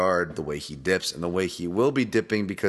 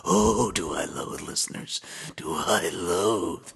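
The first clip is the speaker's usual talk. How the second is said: mock despair; 3 semitones lower, slower than usual. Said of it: "You can hear the fucking tone of my voice".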